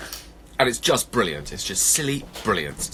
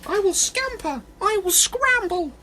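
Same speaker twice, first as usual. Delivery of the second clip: very high, tiny eager voice; little mouse; 3 dB louder, slower than usual. Acted. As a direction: squeak it like a mouse. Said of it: "said a mouse".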